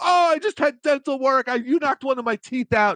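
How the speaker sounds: very high, screamed protesting tone. Retelling a staged prank where the partner screams about dental work: imitating someone screaming. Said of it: "he'd start screaming".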